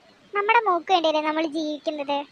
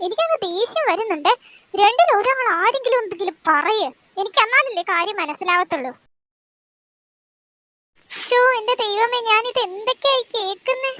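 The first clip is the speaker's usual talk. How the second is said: a mother throwing up her hands; exasperated mother. Acted. Mother voice continues.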